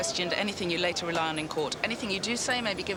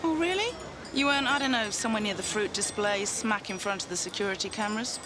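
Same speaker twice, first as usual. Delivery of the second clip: sarcastic. Acted. Detective taunts suspect with footage.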